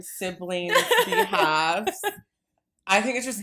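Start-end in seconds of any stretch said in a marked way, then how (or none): 0.0-2.0 high, loud, through laughter; laughing protest. Real, not acted. Sibling declines to speak for the others, laughing. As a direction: squeal it out, still cracking up. Answering amid shared laughter.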